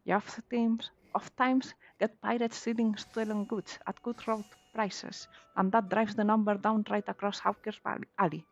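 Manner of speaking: lightly voiced pirate; a hint of a gruff pirate. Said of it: "Here's my pirate voice again".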